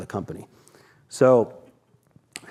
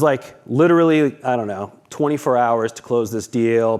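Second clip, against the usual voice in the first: ordinary delivery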